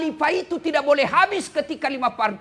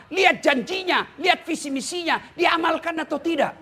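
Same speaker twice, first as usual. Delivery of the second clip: shouted checklist; 3 semitones higher than usual. Real, not acted. Preacher hammering a checklist.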